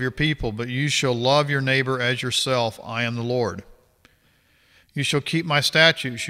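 measured, formal Bible reading voice; scripture reading. Acted. Reading Leviticus aloud to viewers, formal scripture reading. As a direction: read the verses out steadily, like a passage at church.

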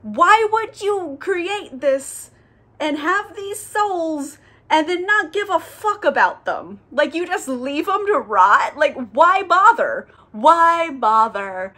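indignantly retelling an angel's outrage, words stretched out; mad Memnoch. Retold or imitated. Memnoch confronts God over abandoned souls, mock outrage. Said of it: "Memnoch gets really mad about this".

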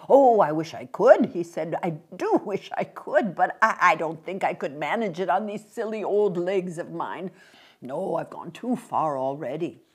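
a hint of a courteous old gentleman pleading; polite old man.

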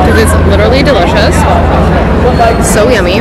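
talking with a mouth full of salad. Real, not acted. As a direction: chew and talk with mouth full. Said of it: "talking with my mouth full".

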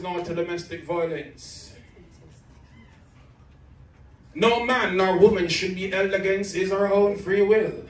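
rhythmic, dramatic poetry recital; defiant slam poetry against abuse; spoken word poem. Acted. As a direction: build the poem with rising force. Performs second spoken word poem.

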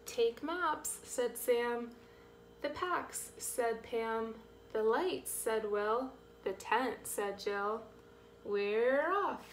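measured, lilting picture-book read; reading to children. A narrator's reading. Reader to children as the campers pack, lilting story read. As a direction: read each little quote with bounce, then the tag evenly.

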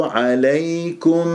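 slow عليكم closing on a clearly sounded م; clear meem. Shown as a demonstration. Teacher models the clear meem, slow recited عليكم. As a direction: let the م of عليكم be heard. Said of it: "ميم مظهرة".

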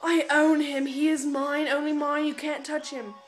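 lightly voiced jealous fangirl; mocking a fangirl who claims a band member; possessive fangirl. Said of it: "girls in my school all the time are like".

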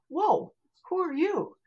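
high-pitched astonished question; startled amazement. Retold or imitated. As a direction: act out being taken aback, voice jumping up. Meets a spirit in the room.

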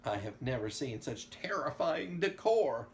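emphatic rave leaping to a loud, high last word; raving. A narrator's reading. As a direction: build to a delighted shout on "ever". Ecstatic character raves about the house.

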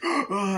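high imitated cry; mock cry. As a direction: imitate a man being attacked. Man attacked in retold scene.

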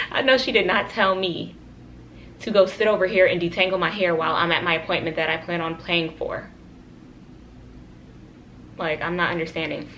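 talking around a retainer; wearing a retainer. Real, not acted. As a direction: speak with a retainer in. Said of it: "I have my retainers in and it really just is so hard to talk with them".

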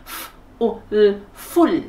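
"full" sounded out slowly, tongue up on the l; curled-tongue final l. Shown as a demonstration. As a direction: curl the tongue up for the l ending "full". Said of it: "phải cong lưỡi lên cho cô ở từ cuối".

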